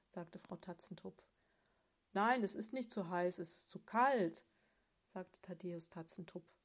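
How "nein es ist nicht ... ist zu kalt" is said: loud, indignant grumble; a cross bear of a husband, complaining loudly; the husband bear, snapping at his wife; grumpy bear. Acted.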